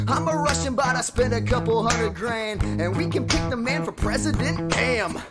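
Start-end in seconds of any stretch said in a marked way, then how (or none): none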